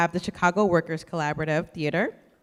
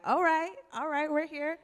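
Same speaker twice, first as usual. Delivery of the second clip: acted South Side approval; 7 semitones higher, 4 dB quieter than usual. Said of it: "I'm like".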